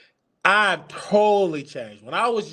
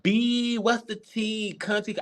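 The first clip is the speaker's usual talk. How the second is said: lightly mimicking a slangy gay man, higher; mimicked gay slang; 5 semitones higher, 3 dB quieter, slower than usual. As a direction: imitate that gay slang talk, pitched up. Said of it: "I don't talk like that".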